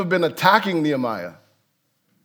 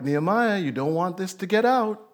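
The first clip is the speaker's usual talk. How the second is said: softer, hushed warning; soft veiled threat; 6 dB quieter than usual. Retold or imitated. Enemies quietly threatening Nehemiah, hushed menace. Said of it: "They're like".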